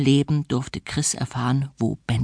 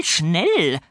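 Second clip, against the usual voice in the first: falling second schnell; 6 semitones higher than usual. A narrator's reading. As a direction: bring schnell down with a final push. Fräulein Schimmel hurrying.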